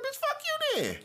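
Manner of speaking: high-pitched furious yell at her; angry yell. Retold or imitated. Yelling back at the woman who refused his apology, angry. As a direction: scream it back at her in a rage.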